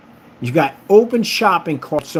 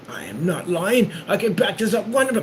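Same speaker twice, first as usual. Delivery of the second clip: mock defensive reply; 7 semitones higher than usual. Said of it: "And they were like".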